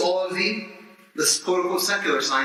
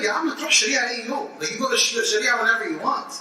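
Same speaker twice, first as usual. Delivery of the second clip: sarcastic administrator; 6 semitones higher, faster than usual. Retold or imitated. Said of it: "He's like".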